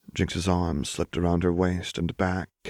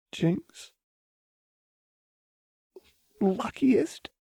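higher, disbelieving echo; soft echo; much slower than usual. A narrator's reading. Jinx echoing Lux's words, stunned and soft. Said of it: "Jinx echoed softly".

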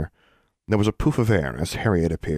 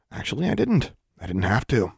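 put-on smug boy; 3 semitones higher than usual. A narrator's reading. Larry's smug reply.

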